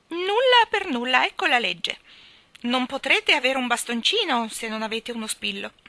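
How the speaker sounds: high, loud pronouncement, easing as it goes; Miss Calicò. Acted. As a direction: lay down the law in a high voice. Calicò lays down her law.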